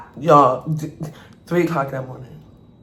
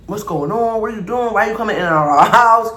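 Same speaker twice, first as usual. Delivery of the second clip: raised, alarmed questioning; startled questions; 4 semitones higher, 3 dB louder than usual. Retold or imitated. Roommates confronting a stranger, startled and alarmed. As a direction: demand to know why he's in the house.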